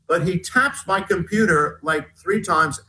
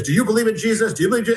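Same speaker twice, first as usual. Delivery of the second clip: preaching at people; 6 semitones higher, much faster than usual. Retold or imitated. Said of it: "goes to the people in front and says".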